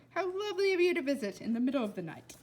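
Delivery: put-on quick, formal little boy; a fussy boy being courteous; lightly voiced polite boy. Blind boy greeting a visitor at midnight, quick and polite.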